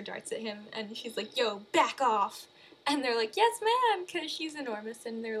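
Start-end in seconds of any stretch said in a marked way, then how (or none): 1.4-2.5 mock angry. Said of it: "she also gets real mad". 3.4-4.1 high, loud squeaky yes ma'am; meek soldiers. Retold or imitated. Tiny soldiers obey giant mom.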